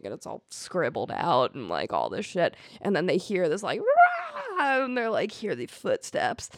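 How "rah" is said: high screeching orc cry; orc roar. Retold or imitated. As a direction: let out a short monster screech. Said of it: "Was that your orc voice?".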